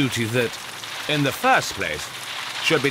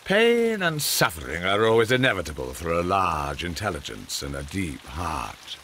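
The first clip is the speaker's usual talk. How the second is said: recited quote; 5 semitones lower than usual. Acted. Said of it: "a few words along the lines of".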